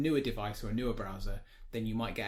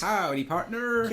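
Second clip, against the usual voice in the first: cowboy greeting; 8 semitones higher, 5 dB louder, slower than usual. Pretend. Cowboy greeting for each follower.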